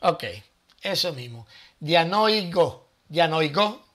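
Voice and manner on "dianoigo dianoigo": DIANOIGO sounded out as di-a-NOI-go, in Spanish sounds; pronunciation demo. Shown as a demonstration. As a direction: say "Dianoigo" slowly and tentatively, showing roughly how it sounds. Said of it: "algo así".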